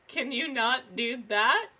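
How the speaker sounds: slow, mock-polite sarcasm; sarcastic request. Telling a stranger to stop pulling his mask down, slow sarcasm. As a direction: sarcastically ask him to stop.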